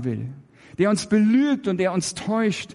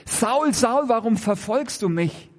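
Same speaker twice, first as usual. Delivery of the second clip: higher, ringing call of Saul's name; a lightly voiced Jesus calling Saul; 5 semitones higher than usual. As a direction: call out Saul's name from afar, then ask gently.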